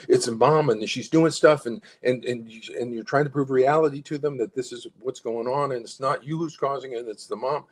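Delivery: pressing hard to prove a point; insistent, pushing the facts at them; assertive pushing. Shown as a demonstration. Parent arguing hard with a psychologist, assertive push. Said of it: "because assertion will get pushback".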